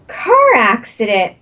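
car accident called out, startled; exclaimed. Real, not acted. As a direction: blurt it out in surprise. Reading the list, voice jumps.

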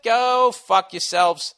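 slow, high, stretched-out curse; drawn-out insult. Real, not acted. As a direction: stretch every word with contempt. Repeated insult at New Yorkers.

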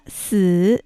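死 as Mandarin si, low dipping tone; third tone. Shown as a demonstration. Teacher isolates 死 for learners, low third tone. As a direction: sink low and draw out 死. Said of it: "無健絶音三声です".

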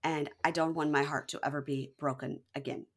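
low-key mock confessional; calm, serious. Girlfriend confiding to camera, calm and serious. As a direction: settle down into earnest, measured softness. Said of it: "in a very, like, calm, serious moment".

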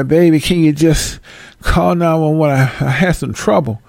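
lightly voiced frail old woman asking for help; a hint of a pleading granny at the door; mock helpless old lady begging at the door. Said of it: "your voice tremble, you talk like this".

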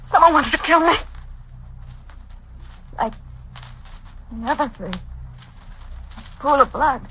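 mounting fear. Acted. Alone, panic building.

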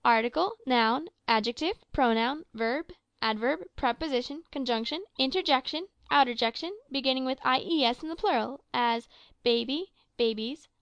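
schoolboy's sing-song list, item by item; sing-song recitation. A narrator's reading. Doddle naming parts of speech to the master, sing-song. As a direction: chant it off like a rote lesson. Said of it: "In a very sing-song voice".

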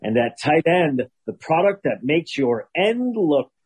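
sports announcer ad read. Acted. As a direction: read it like a game-day ad. Football-themed ad read.

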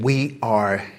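slow, hushed, sinking into a whisper; solemn slow whisper at the end; grave quote. Retold or imitated. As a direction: deliver the quote low and heavy. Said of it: "He said".

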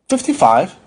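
matter-of-fact answer. Acted. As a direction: answer simply, falling at the end. Patient simply answers his age.

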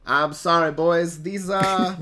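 lightly put-on character drawl. Player breaks bad news to the boys in character, lightly drawled. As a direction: slip back into the character, apologetic. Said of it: "spoke like this forever now".

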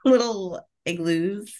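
amused slow repeat. Real, not acted. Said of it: "you said igloos".

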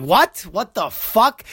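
high, stunned "what the fuck"; shocked outburst. Retold or imitated. Retelling the boss's news, a high shocked outburst. Retold shock at suspended license.

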